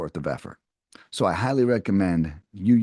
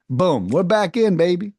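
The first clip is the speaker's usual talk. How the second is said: excited cheer; 6 semitones higher, 4 dB louder than usual. Real, not acted. Excited sales coach cheer.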